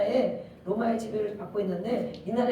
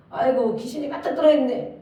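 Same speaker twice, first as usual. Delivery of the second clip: mock insult; 2 semitones higher, 6 dB louder than usual. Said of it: "이러면 정말 그 뒤로 절대 얼굴 안 보겠죠".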